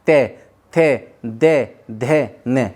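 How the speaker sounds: "ते, थे, दे, धे, ने" each said clearly on its own; dental syllables shown. Shown as a demonstration. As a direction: spell out "ते थे दे धे ने" for students. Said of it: "देखिए".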